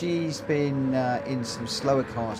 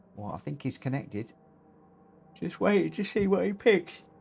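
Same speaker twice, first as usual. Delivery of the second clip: talking through a yawn, higher pitch; 5 semitones higher than usual. Commentating as a player connects to the server, yawning. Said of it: "sorry for yawning".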